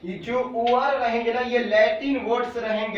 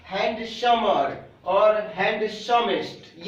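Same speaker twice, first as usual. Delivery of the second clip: slow dictation; slower than usual. Shown as a demonstration. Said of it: "क्या?".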